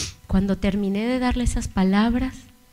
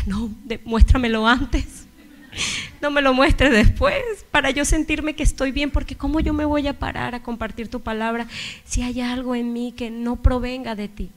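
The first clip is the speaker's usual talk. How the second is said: raised, pressing plea to God; urgent pleading; 4 semitones higher than usual. Retold or imitated. Preacher pleading with the Lord before she speaks, raised and urgent. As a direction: beg for an answer right now.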